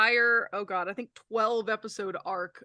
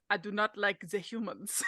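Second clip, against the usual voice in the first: put-on French accent; 4 dB quieter than usual. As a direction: play a fae character with a French accent. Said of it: "she had a French accent".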